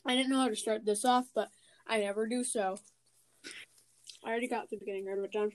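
talking around a candy; hard candy in the mouth, sucking on it. Real, not acted. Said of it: "I have candy in my mouth".

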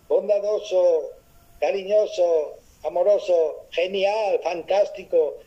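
called-out kind words. Retold or imitated. Boy calls kind words into cave.

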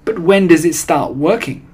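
high, loud follower's question; eager question. A narrator's reading. Witch audience asking when the formula works, eager. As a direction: ask it bursting with eagerness.

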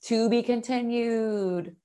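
drawn-out mock cliffhanger line; lightly hammed-up teaser; dramatic cliffhanger. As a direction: draw it out like an episode ending. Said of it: "It's very dramatic".

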